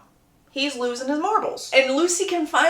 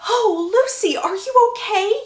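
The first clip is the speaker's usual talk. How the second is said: higher, louder, over-the-top fussing; fussy concern; 10 semitones higher, 6 dB louder, slower than usual. Retold or imitated. Hermione rushing to fallen Lucy, higher and louder in hammed-up alarm. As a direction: gush with mock alarm over a friend. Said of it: "run to her friend and go".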